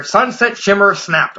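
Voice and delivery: slow, careful retake of Sunset Shimmer snapped. Shown as a demonstration. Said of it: "Okay, there we go".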